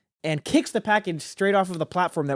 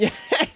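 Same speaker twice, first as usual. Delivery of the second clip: a harsh, snorting laugh; ugly snorting laugh. Real, not acted. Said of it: "that was an ugly laugh".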